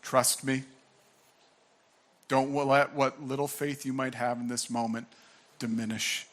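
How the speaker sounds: earnest reassurance. Shown as a demonstration. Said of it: "looks Jairus in the eyes".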